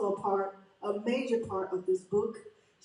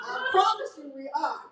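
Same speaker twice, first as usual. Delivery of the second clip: tearful; 4 semitones higher than usual. Real, not acted. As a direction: voice catching with tears. Emotional pledge to the audience.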